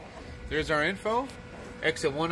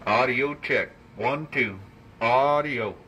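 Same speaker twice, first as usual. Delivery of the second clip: radio voice with heavy echo; echo effect; 3 semitones lower, slower than usual. Shown as a demonstration. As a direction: speak through a mic with echo. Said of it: "Let's turn on some echo here".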